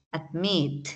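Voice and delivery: Admit, weight on the long ending; stress on final syllable. Shown as a demonstration. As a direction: Admit with the last syllable drawn out. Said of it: "está al final de la palabra".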